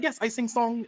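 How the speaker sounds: mock Asian accent. Girl in the video claiming she sang it, in a put-on Asian accent. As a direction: mimic a strong Asian accent, mildly. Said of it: "she got a strong Asian accent".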